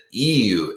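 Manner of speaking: "ew" as a fronted oo; Baltimore "ooh". Shown as a demonstration. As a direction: slide "ew" from ee toward oo. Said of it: "It's such a weird "ooh" sound".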